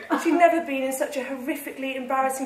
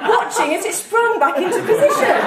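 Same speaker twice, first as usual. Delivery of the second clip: laughing; 4 semitones higher, 3 dB louder than usual. Real, not acted. Reader laughing through narration.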